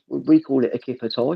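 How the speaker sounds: Birmingham "kipper tie", tie as toy; retold in a Brummie accent; lightly played Brummie explanation. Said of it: "Is that how the accent makes it sound?".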